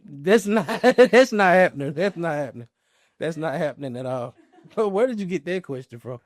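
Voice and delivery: laughing through the words; chuckling disbelief, can't keep a straight face. Real, not acted. Laughing at the impossible question.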